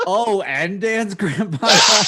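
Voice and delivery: high, loud mock surprise; gleeful put-on surprise; fake surprised. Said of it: "he's like".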